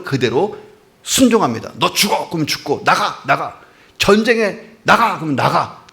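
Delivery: voicing the centurion. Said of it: "백부장 입장에서 해석을 해볼게요".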